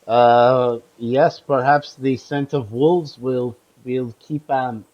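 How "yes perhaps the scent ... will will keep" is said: put-on slow, lightly done Russian accent; a hint of a Russian accent, slow. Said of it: "I'm, like, super Russian here".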